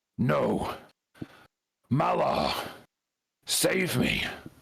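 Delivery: creaky, high, rough voice, half human, half beast. Voicing a wounded creature crying out: hybrid human bestial voice. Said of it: "in this kind of hybrid human bestial voice".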